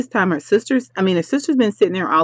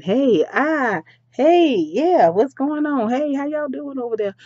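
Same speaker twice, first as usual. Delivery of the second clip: happy greeting; 6 semitones higher than usual. Acted. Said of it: "she is all happy".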